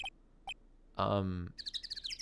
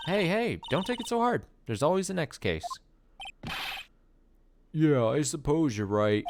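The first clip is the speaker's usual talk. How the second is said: Detective Gumshoe voice. Acted. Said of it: "my Detective Gumshoe voice".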